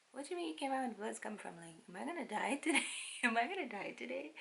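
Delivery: fast, high, panicky rush; mock panic. Mother fearing death in surgery, fast panic. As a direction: spiral into fear.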